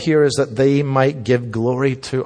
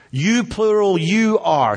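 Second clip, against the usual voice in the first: "You" pitched high, "plural" high after it; emphatic you; 6 semitones higher, slower than usual. Shown as a demonstration. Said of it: "So Jesus is saying".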